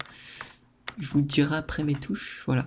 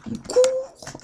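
sudden high squeal; high excited squeal. Real, not acted. Running in game.

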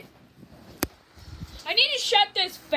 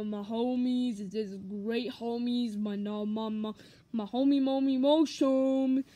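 Nabbit voice. Acted. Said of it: "And for Nabbit".

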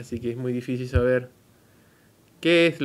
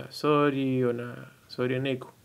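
slow quoted reading; 3 dB quieter, slower than usual. Retold or imitated. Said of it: "y entonces dicen".

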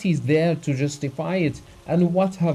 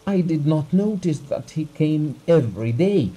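angry self-reproach; 4 semitones higher, 4 dB louder than usual. Acted. Abugin raging at his own blindness.

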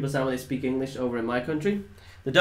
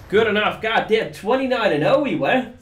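excited shout; 7 semitones higher, 5 dB louder than usual. Real, not acted. Hype at killstreak count.

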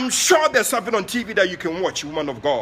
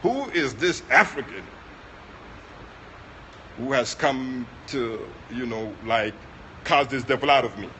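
put-on possessed boy's voice; 7 semitones lower, 4 dB quieter than usual. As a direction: voice the possessed teenager, lower and dragging. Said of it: "But this is what he said".

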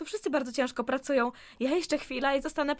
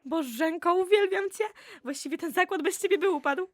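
higher, louder burst of gratitude; delighted gush; 5 semitones higher, 4 dB louder than usual. Acted. Wala thanks Bożena for her plan, gushing. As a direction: squeal your thanks like she saved the day.

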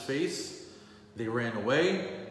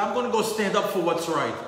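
higher and louder, resolute; determined declaration; 7 semitones higher, 6 dB louder than usual. Acted. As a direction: announce it like a vow. Pinchas resolves to act.

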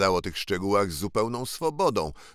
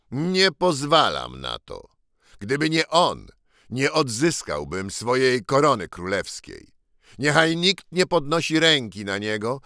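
a touch louder, commanding; firm young king; 4 semitones higher, 3 dB louder than usual. Acted. True king rebuking the Lord Protector, lightly voiced commanding. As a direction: forbid it with royal authority.

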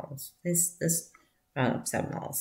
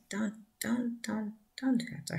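higher, whispered urging; hushed plea; 7 semitones higher, 4 dB quieter than usual. Retold or imitated. Sister telling brother not to cry, whispered. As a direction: gently stop him, in a whisper.

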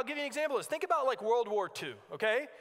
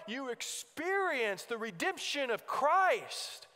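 impassioned preaching; 3 semitones higher than usual. Real, not acted. Preacher calling the congregation to repentance, impassioned preaching. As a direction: preach it with conviction.

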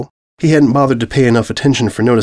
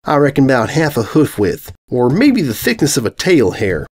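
dry, deadpan ribbing; lightly voiced farm mare, dry. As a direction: tease her with a straight face. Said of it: "the orange dryly said".

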